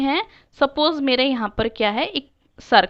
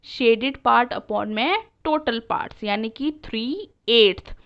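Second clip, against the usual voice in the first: slow explaining; much slower than usual. Shown as a demonstration. Teacher walking pupils through the fraction, slowly. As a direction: spell out the rule slowly. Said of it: "तो इसका fraction क्या बना".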